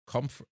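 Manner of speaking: "Comfort" clipped off short as KUMF; sounding it out. Shown as a demonstration. Streamer breaks the word down for chat, sounding it out. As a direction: say just the start, "Comfort", cut short. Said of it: "It's definitely not comfortable".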